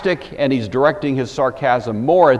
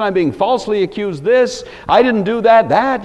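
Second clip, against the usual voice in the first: higher, lightly imitated protest; mild mock pleading; 7 semitones higher than usual. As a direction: imitate a desperate prisoner. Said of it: "accustomed to people groveling".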